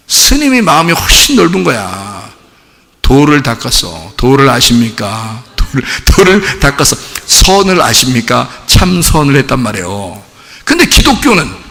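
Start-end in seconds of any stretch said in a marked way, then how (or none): 3.0-8.5 slow, low monk-like delivery; mock-solemn, unhurried and low. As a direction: draw it out like a man of the Way. Playing a monk's solemn talk.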